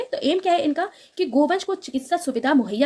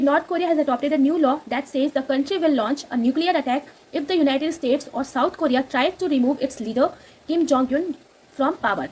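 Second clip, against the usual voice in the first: very slow, careful reading of English text; slow news read; much slower than usual. Acted. Teacher reading the English news line to students, slow and careful. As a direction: read each word out slowly for students.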